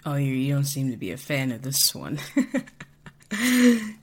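put-on sloppy slurred drunk, laughing; loose, giggly drunkard. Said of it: "drunkard voice module".

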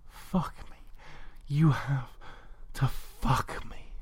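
high, breathy acted pleading; gentle whimper. A narrator's reading. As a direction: whimper it slowly in the lover's voice. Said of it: "you whimpered gently".

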